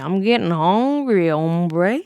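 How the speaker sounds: a hint of the booming Preeny. Explaining the Preeny line to chat, lightly voiced. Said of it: "I just think of Preeny".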